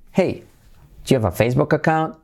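"Hey", a pause, then quick rise on "account"; hey-technique intonation. Shown as a demonstration. Teacher having students repeat, rising intonation on "account". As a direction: pitch up "Hey", then hurry to a lifted "account". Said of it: "Técnica del hey".

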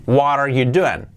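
"What are you doing?" slow and joined as "wah-rar you doo-en"; linking. Shown as a demonstration. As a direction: glide through "What are you doing?" without breaks. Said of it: "Así hacemos la unión de palabras".

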